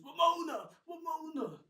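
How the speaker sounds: loud, high calling out her name; stunned cry. Acted. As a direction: shout the name in shock. James stunned, cries her name.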